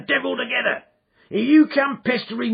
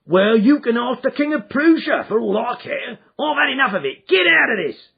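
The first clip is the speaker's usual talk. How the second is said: loud, much higher, rising to a roar; furious shout; 14 semitones higher, 10 dB louder than usual. Acted. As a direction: yell him out into the dark. Salesman drives the man away.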